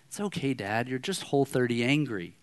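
soft, understated reassurance; son forgiving. Retold or imitated. Son forgiving his hangry dad, soft reassurance. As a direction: let dad off gently and quietly. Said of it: "And Chapman said".

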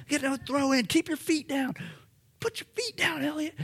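high-pitched coach's yell from the sideline; yelling at the kids. Retold or imitated. Coach yelling at second graders during a night soccer game, high pitched shout. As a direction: bellow it across the field at the players. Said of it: "so I'm yelling".

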